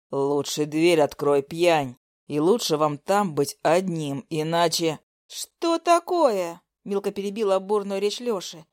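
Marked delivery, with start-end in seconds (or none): 0.1-5.0 threatening man. Acted. Lyosha threatens. 5.3-6.6 mock surprise. Friend interrupts mockingly.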